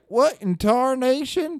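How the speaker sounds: high, loud, drawn-out cowboy exclamation. Acted. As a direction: drawl it like a baffled cowboy. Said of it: "cowboy lingo".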